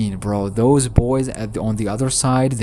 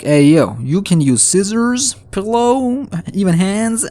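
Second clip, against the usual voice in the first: eager demon; 9 semitones higher, 4 dB louder than usual. Retold or imitated. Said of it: "He's like".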